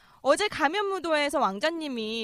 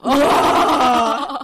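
loud, very slow amazed wow; drawn-out wow; 10 dB louder, much slower than usual. Acted. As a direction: stretch the wow in awe. Amazed reaction.

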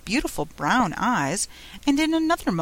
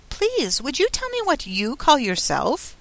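high, tentative polite request; timid; 6 semitones higher than usual. A narrator's reading. Alice asking the fawn what it is called, timidly. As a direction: ask timidly, starting high. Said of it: "she said timidly".

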